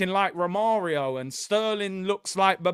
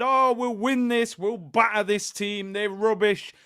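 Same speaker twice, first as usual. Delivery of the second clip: mock confident fan; 3 semitones higher, 4 dB louder than usual. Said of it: "I've said".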